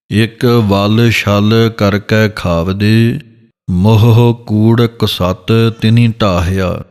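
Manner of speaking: slow, measured gurbani reading; scripture recitation. Shown as a demonstration. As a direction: recite it slowly like a kirtan line.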